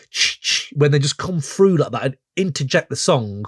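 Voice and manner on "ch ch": jingling bell noise made by mouth; hissy vocal mimic of Christmas bells; imitated Christmas bells. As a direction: imitate sleigh bells cutting in. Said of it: "are those bells, those Christmas".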